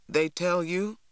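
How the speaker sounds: a short, mildly angry question; clipped and cross with it; curt, angry. Acted. Father asking the neighbour, mildly curt and angry. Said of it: "his voice curt, angry".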